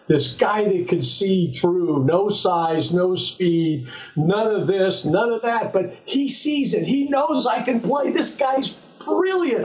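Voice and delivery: tongue-in-cheek rave about a brilliant scout; mock admiration. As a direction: build the fake awe, climbing in pitch. Sarcastic car monologue about scout.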